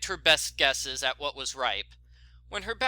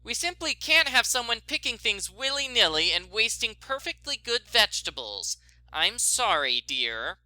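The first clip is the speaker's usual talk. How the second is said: reprimanding; 5 semitones higher than usual. Acted. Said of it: "Bet reprimanded".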